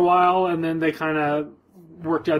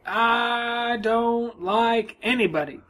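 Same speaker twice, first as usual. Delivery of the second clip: put-on grumpy old woman; 7 semitones higher, much slower than usual. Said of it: "She would always be like".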